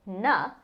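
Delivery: "na" with the vowel of up; short a as in up. Shown as a demonstration. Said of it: "the same sound you get when you say the word up".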